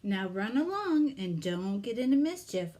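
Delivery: firm parting words to the bunnies; mother rabbit. Acted. Mother rabbit tells her children to behave, lightly voiced.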